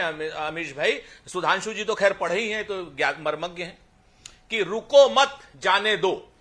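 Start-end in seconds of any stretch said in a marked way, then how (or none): 4.6-6.3 RUKO MAT JAANE DO spread slowly word by word; unpunctuated phrase. Shown as a demonstration. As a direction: say "रुको मत जाने दो" slowly, comma not yet placed. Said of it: "इसमें कौमे का फर्क होता है".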